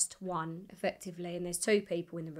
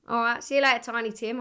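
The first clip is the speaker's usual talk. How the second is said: breezy, cocky send-off; mugging him off; 3 semitones higher, 6 dB louder than usual. Retold or imitated. Singer dismissing the cameraman after auditioning, cheekily offhand. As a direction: toss a cheeky goodbye at him, starting loud. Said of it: "I'm just mugging him off".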